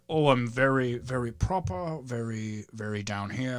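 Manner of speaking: put-on Virginia accent. Comic showing friends how he pictures Virginians, proper Virginia accent. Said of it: "Virginia accent, when I picture it".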